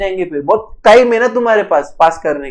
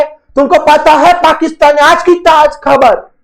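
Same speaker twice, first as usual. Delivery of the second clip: mock news anchor shout; 6 semitones higher, 3 dB louder than usual. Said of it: "चिल्ला चिल्ला के".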